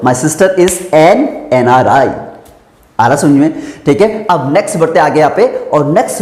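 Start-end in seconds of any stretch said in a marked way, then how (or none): 0.0-2.1 slow dictation. Shown as a demonstration. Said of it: "तो बोल सकते हो".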